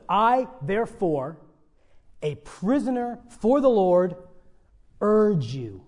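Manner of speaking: slow, weighted reading that builds to urge; emphasis on urge. Shown as a demonstration. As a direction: urge set apart by slow pauses and landed firmly. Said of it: "that word urge is at the beginning of the sentence".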